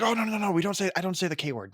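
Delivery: lightly acted string of denials; Deadpool. Podcaster imitating a character dodging a banned word, mock protest. Deadpool hurriedly denying, retold.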